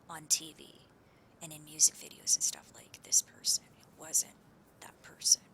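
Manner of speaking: breathy secret-telling whisper. Real, not acted. Whispered conspiracy story.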